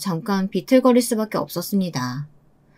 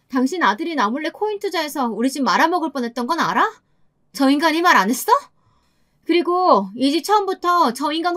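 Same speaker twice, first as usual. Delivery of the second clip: higher-pitched, indignant comeback; angry retort; 6 semitones higher than usual. Acted. Wife telling mother-in-law the house is hers, indignant and high. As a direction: lay out the facts heatedly, pitch climbing.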